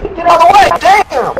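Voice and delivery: high, loud shout falling on way; urgent shout. Retold or imitated. Warning Keith a second time, loud falling shout. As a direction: bark the warning again, harder. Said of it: "And I'm like".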